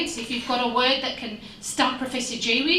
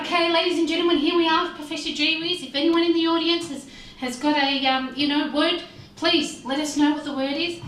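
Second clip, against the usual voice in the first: higher, projected host announcement; game show host; 4 semitones higher, 4 dB louder than usual. Acted. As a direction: address the audience like a TV host. Game show host addressing audience.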